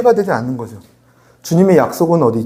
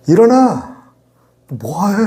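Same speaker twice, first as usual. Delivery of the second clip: high, quick "get up" dropping at the end; casual modern rebuke; 4 semitones higher, much slower than usual. Acted. God telling Joshua to get up in today's words, casual rebuke. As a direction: rouse him in everyday modern speech. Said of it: "요즘 표현으로 이렇게".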